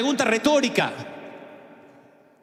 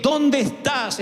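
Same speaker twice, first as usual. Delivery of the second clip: sad, full of grace; 4 semitones higher, much slower than usual. Acted. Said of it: "Pienso que la voz sonó triste".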